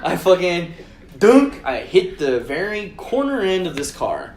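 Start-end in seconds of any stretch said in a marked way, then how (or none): 1.2-1.6 loud, high thunk sound; imitated thunk. Driver acts out hitting the bumper, loud punched thunk. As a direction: punch it out as an impact. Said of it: "You hear the little dunk".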